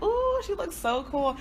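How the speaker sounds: high, drawn-out admiring ooh; admiring gush. Retold or imitated. Retelling her first sight of a cool friend, admiring gush. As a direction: gush in awe, slowly, well up in pitch.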